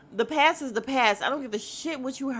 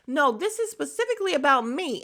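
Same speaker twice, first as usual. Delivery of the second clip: mock insistent protest, pitched up; raised-voice imitation; 5 semitones higher, faster than usual. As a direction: imitate an indignant demand, voice raised. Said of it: "raising her voice".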